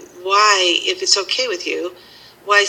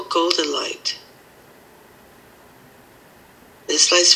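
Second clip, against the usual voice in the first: guided meditation. Acted.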